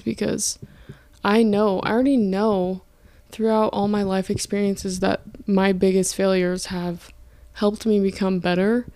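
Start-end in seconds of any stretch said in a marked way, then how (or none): 3.3-8.9 talking slightly out of breath; a bit breathless, winded. Real, not acted. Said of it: "sorry, I'm out of breath".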